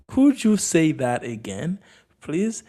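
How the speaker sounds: slow, spaced-out model question; slow repeat. Shown as a demonstration. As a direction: repeat it slowly for learners, rising on please. Slower repeat for learners.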